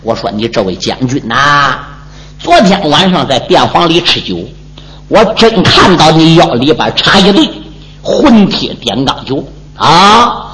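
lightly voiced old man placating; old squire hushing. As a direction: hush him down, coaxing him inside. Old squire speaks again.

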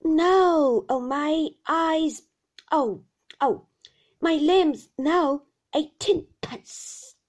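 loud, high, drawn-out wail; fierce old shopkeeper howling slowly; gusting singsong. A narrator's reading. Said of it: "every sentence he spoke he delivered".

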